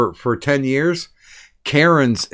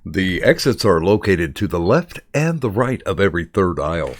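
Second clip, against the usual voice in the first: lower, lightly put-on safety announcement; announcer voice; 4 semitones lower than usual. Crew pointing out the exits, announcer voice. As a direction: recite it like a practiced announcement. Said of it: "How do you all have these voices".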